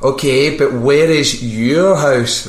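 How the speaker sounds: strained, laboured patience of a taxi operator; losing patience. Retold or imitated. Taxi operator to a prank caller, losing his patience. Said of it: "start losing his patience".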